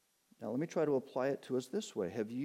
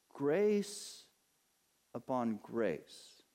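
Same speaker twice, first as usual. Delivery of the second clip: drawn-out scripture words; much slower than usual. Shown as a demonstration. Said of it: "And from this fullness".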